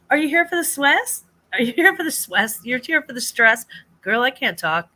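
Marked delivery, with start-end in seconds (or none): 0.1-3.7 playful tease. Real, not acted. Teasing greeting a chat viewer.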